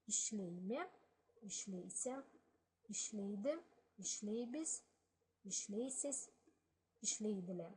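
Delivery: each Balkar form said clearly, one at a time; Balkar verb forms read. Shown as a demonstration. Teacher models the conjugation for students, in careful Balkar. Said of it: "put personal verb endings here".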